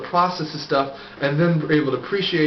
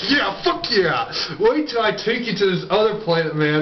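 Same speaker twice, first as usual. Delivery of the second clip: excited God; 3 semitones higher than usual. Acted. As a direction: gush like a host with a new treat. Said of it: "God's gonna get all excited".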